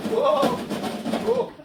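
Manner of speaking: very high rising whoa, hammed-up fright; mock alarmed whoa. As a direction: fake a startled yelp as the bird escapes. Acting out a seagull mishap.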